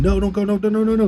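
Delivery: put-on shrill, very high, loud screaming. Retelling begging another trainee not to report, imitating own past screaming.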